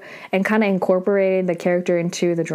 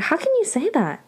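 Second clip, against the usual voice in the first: pitched-up, acted-out shock; mock indignant disbelief; 9 semitones higher than usual. Aro objecting to Sam's harsh remark, mock indignant. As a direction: protest it like a scandalised friend, retold.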